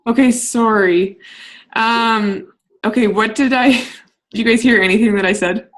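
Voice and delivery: tinny underwater sound; like talking through a tin can; high pass filter. Real, not acted. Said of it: "You sounded like you were underwater".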